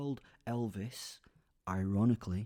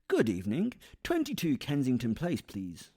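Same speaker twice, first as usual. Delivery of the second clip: booming greeting; 3 semitones higher, 5 dB louder than usual. Acted. Shadow startles couple in car.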